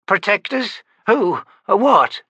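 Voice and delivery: high, startled rapid questions; Myby, frightened old woman, jolted by shock; alarmed questions. A narrator's reading. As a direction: snap each word up in sudden alarm.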